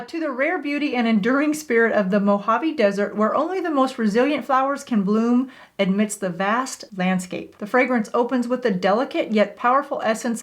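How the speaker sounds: exaggerated sing-song cartoon reading; cartoon character voice. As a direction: read it like a lightly cartoonish narrator. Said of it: "Why am I reading it like a cartoon character?".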